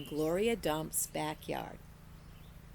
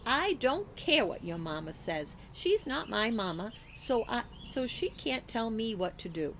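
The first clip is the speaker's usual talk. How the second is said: shouting; 3 semitones higher than usual. Acted. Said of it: "I shouted at Stevie".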